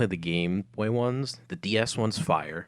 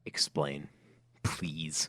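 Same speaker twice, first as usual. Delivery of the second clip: whispering; 4 semitones lower, 5 dB quieter, much slower than usual. Real, not acted. Whispered request for explanation.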